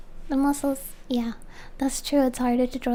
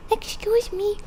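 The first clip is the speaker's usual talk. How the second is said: indignant excuse me; 7 semitones higher than usual. Real, not acted. Calling out to mower.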